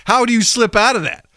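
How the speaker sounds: high, incredulous question; retold exasperation. Tom ranting about dropped accents, mock exasperation. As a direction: imitate someone baffled, pitch jumping up.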